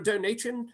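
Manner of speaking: "donation" slipped into "donay-tree-un"; slip of the tongue. Real, not acted. Host asking for support trips on "donation", saying "donay-tree-un".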